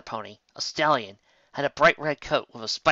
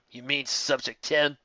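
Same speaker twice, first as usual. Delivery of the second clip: mock innocent; 2 semitones higher, slower than usual. A narrator's reading. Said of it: "the red one asked innocently".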